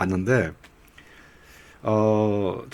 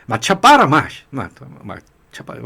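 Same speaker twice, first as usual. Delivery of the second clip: Gyeongsang dialect; 4 dB louder than usual. Retold or imitated. Gyeongsang man rejected in a meeting, storming out in Gyeongsang dialect. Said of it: "경상도 사람들은 어떻게 하느냐".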